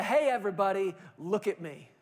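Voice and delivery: mock attention-seeker calling out; hammed-up look-at-me voice; lightly mocking a social media braggart; self-promoting show-off. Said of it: "I call it the".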